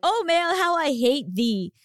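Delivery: lightly hammed-up olde English lament; mock olde english. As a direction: declaim it like a stage tragedian. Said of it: "I need you to use a Shakespearean voice".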